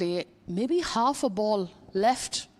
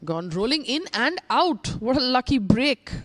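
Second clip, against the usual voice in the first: excited; 5 semitones higher, 4 dB louder than usual. Real, not acted. Ball rolls in, commentator reacts.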